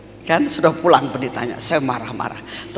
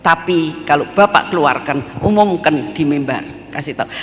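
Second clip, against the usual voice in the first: defiant retort; 5 dB louder than usual. Retold or imitated. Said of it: "Jadi akhirnya saya bilang".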